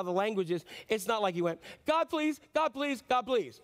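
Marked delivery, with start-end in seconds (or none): 1.9-3.6 quick, rushed pleas rising high; hurried mock begging; three quick prayers. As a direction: fire off short pleas one after another. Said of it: "it wasn't three quick prayers".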